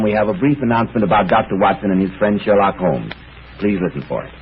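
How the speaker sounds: smooth, even announcer's opening read; radio announcer read. Acted. Announcer to radio listeners, a smooth program introduction. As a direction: introduce the evening's mystery broadcast.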